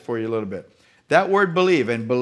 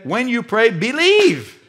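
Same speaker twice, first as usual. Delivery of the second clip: Jesus exhorting; 8 semitones higher, 5 dB louder, slower than usual. Retold or imitated. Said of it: "But Jesus said".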